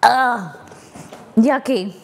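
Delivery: high, slow, puckered from sour; wincing at a sour mouthful; eating something sour. Real, not acted. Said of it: "a chunk of jam at the bottom".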